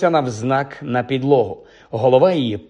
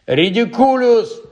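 high, drawn-out yell; yelled spell; 9 semitones higher, slower than usual. A narrator's reading. Pupil casts at the crawling hand, high yell. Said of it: "загорлав Дін".

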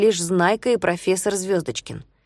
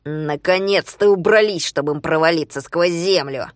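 Zhulio's voice; 2 semitones lower than usual. Acted. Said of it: "голосом Жулио".

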